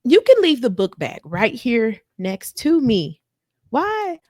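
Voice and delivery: high, loud, drawn-out insistence; exasperated demand. Retold or imitated. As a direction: act out a fed-up partner laying down instructions. Acted quarrel over the bags.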